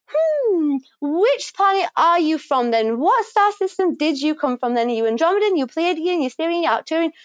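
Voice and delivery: lightly voiced curious interrogator; mock curious quiz. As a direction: tease like a curious stargazer. Mock questioning by starseed collective.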